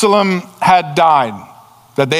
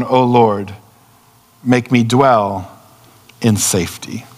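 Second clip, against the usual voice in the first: scripture reading; 3 semitones lower than usual. Acted. Reads Psalm 4 aloud.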